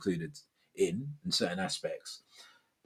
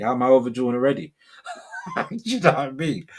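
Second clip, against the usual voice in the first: laughing disbelief; 3 semitones higher, faster than usual. Real, not acted. Laughing at being overdrawn.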